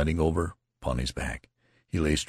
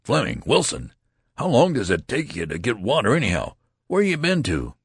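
irate lieutenant scolding, pitched up and louder; scolding officer, rising in anger; angry rebuke; 6 semitones higher, 4 dB louder than usual. A narrator's reading. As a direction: snap at the two latecomers, exasperated. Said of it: "swelled with wrath".

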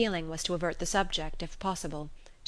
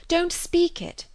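much higher, louder, slow insistence on "speak"; eager cry; 11 semitones higher, 5 dB louder, slower than usual. Acted. Emma begging Knightley not to speak, pleading higher. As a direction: beg him urgently, pitch climbing high. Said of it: "she eagerly cried".

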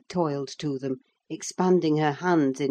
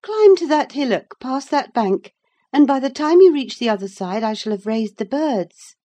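put-on higher, louder bright young girl; eager girl Cathy; 9 semitones higher, 8 dB louder than usual. A narrator's reading. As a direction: call out like a lively girl on the moor. Cathy urging Ellen on.

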